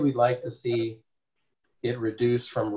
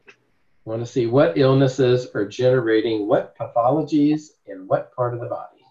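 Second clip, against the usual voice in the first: slower repeat for clarity; 5 dB louder than usual. Real, not acted. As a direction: repeat it slowly and a bit louder, stressing each "what". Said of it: "Say that again".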